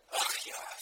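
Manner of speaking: retold weary sigh, barely marked; a mild sigh over the world's misery. Pastor retelling his own sigh to Klaus Vollmer, mild sigh. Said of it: "so richtig schön seufzend über das ganze Elend".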